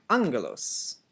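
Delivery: angelos with stress on AN; angelos, accent on the A; stressed on the first syllable. Shown as a demonstration. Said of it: "it has the acute mark right here".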